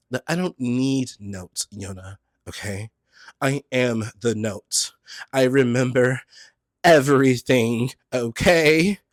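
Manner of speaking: mild mock voice of a boastful listener; mock know-it-all. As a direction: play the listener who needs no notes.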